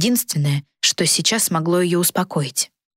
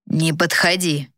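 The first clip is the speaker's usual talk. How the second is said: menacing hiss; slower than usual. Acted. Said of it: "грозно прошипел юноша".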